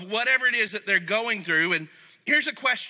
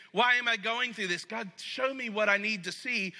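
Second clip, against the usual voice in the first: humble question. Shown as a demonstration. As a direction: ask humbly, really wanting the answer. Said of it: "I don't say that in a way of saying".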